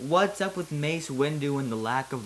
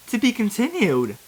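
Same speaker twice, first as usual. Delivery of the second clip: dramatic cliffhanger; 8 semitones higher, 6 dB louder than usual. Acted. Cliffhanger announcement.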